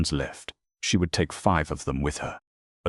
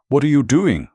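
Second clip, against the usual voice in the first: high, loud alarmed cry; frightened cry; 10 semitones higher, 10 dB louder than usual. A narrator's reading. Martha cries out in alarm at Taylor, high and loud. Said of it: "Martha cried".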